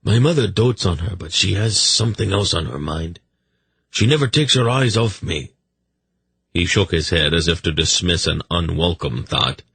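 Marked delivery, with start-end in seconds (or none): 0.0-5.5 a slightly higher royal voice, confiding; a hint of unease in the king's voice; lightly voiced uneasy king. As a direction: lightly play a nervous monarch.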